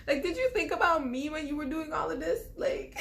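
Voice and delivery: high-pitched, indignant confrontation; going off. Retold or imitated. Confronting him about the pregnancy, going off indignantly. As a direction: let the hurt accusation climb high. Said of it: "And so I just go off".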